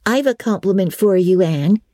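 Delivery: a friend bursting to share gossip; Diana. Acted.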